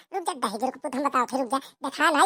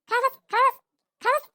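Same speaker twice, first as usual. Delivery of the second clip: very high, sharp commands to stand up; a mother yelling at her son to get up; mother shouting orders; 9 semitones higher, faster than usual. Acted. (बहुत ऊँची आवाज़ में हुक्म)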